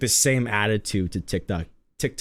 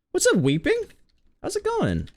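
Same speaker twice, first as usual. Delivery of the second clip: excited greeting. Real, not acted. Greeting a chat viewer.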